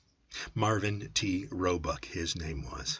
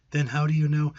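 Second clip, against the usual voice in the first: higher, louder insistent question; impatient demand, voice up and louder; pressing demand; 9 semitones higher, 8 dB louder than usual. Acted. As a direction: push her for the answer.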